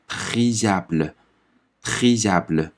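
priable sounded out slowly; slow French demo. Shown as a demonstration. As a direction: spell priable aloud slowly. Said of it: "然后下面这个我们读". (慢读priable)

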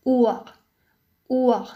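"أور" with long u and silent h; light h. Shown as a demonstration. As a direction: say "أور" as "oo-a", like German Uhr. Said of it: "تأتي الها خفيفة". ("أور" بحرف u طويل وهاء خفيفة)

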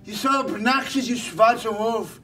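a stubborn little pig turning him away; lightly voiced pig, scolding; defiant piggy. Pig refusing the wolf.

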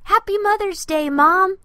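high, loud joyful shout; exclaimed. Acted. Andy wishing his mom happy Mother's Day, loud and joyful. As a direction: call it out with delight. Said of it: "Andy exclaimed".

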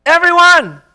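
high, loud triumphant cry; exclaimed. Real, not acted. Preacher proclaims to congregation, loud joyful cry. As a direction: proclaim it with full force to the church.

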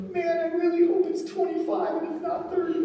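high, laughing hope that it's cheap; laughing donor quote. Retold or imitated. Pastor imitates the laughing donor for his congregation, laughing. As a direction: retell the donor's line through a laugh. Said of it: "And he goes".

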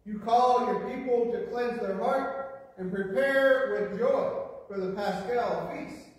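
ordinary delivery

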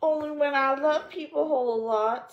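put-on high, loving child's voice; a girl gushing with affection; little girl. A narrator's reading. Pollyanna answering her aunt, high and loving.

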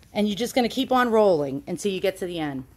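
winded from the effort; out of breath, pushing through. Real, not acted. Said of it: "completely out of breath".

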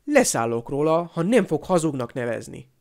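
mildly angry comeback; firing back. Acted. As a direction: hit back firmly in a quarrel. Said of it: "vágott vissza Harry".

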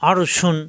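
শুন opening on a full sh; hushing sh. Shown as a demonstration. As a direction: give শুন a clear hushing start. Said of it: "শা শা আওয়াজ হবে". (শুন-এ শা শা আওয়াজ)

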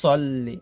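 সল্লি with a full, rounded sad; heavy Arabic ص opening সল্লি. Shown as a demonstration. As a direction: say সল্লি with emphatic s and dark o. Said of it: "তো এখানে যে সদ উচ্চারণ".

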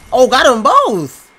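thrilled, drawn-out yell of triumph; excited shout. Real, not acted. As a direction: shout it out, high and slow. Double kill in game.

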